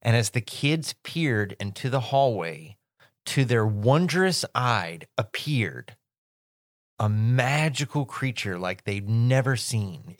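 dramatic storyteller. Shown as a demonstration. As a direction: build suspense like a spooky story. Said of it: "in American writing and film".

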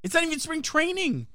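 frustrated. Real, not acted. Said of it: "that's not my point".

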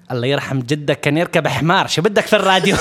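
rapid exasperated Arabic retort, building; mock angry. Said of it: "like, really angry".

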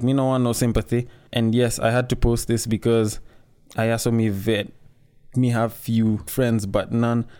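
a light, quick try at his Jamaican patois; Jamaican patois attempt. Vlogger reading the singer's post, attempting Jamaican accent. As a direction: read his words in a half-hearted Jamaican accent. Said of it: "tried speaking in this guy's accent".

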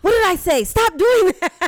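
put-on loud, high angry shout at a kid; yelling parent. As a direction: scold the kid at full volume. Parent yelling at child on unmuted mic.

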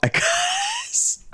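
helpless wheezy high laugh through the word; word collapses into laughter. Real, not acted. Cracking up telling co-host about spilled Blizzards, laughing.

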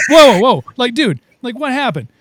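playfully outraged at the cousin's man voice; mock shock.

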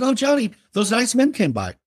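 put-on high, lilting old neighbor; sweet old lady voice. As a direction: play the dear little old lady next door. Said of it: "She said".

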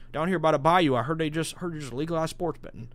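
put-on a weak, half-hearted Cajun accent; lightly put-on Cajun accent for the uncle; bad Cajun accent. Imitating an uncle in Louisiana, half-hearted Cajun accent. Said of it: "I don't have a great Cajun accent".

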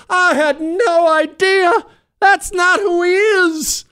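hammed-up sobbing shout; mock tearful plea. Parent pleading at murder trial.

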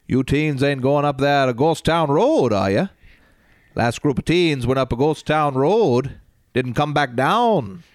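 put-on spooky local warning teens away; Maine accent. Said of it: "I always do a, uh, Fred Gwynn".

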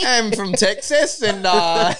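put-on slow Texan cowboy in Australian accent. Player claiming cowboy roots, Australian-tinged accent. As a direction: fake Texas with an Aussie twang. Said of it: "trying to do an impression".

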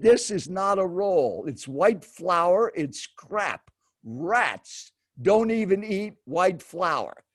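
slow, emphatic mock lecture on food; imitated scolding. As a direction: lay it down word by word, as the indignant seatmate. Acted stranger scolding over food.

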